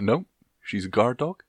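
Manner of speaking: put-on a light Scottish accent as dad; dad's stubborn reply in a faint Scottish accent. Podcast host quoting her dad, in a faint Scottish accent. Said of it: "I don't know why I made him Scottish then".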